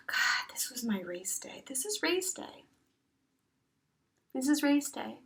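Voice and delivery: whispered inner thought; hushed self-talk. Retold or imitated. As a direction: murmur it to yourself in quiet realization.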